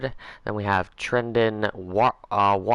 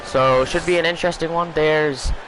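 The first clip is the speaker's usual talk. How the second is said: sports announcer. Acted. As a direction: open the broadcast like a TV commentator. Back into broadcast commentator mode.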